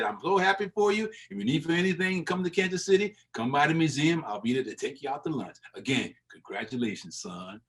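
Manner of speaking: put-on an old man's fond invitation, fading to a gentle close; Buck O'Neill impression. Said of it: "that's the Buck O'Neill impression".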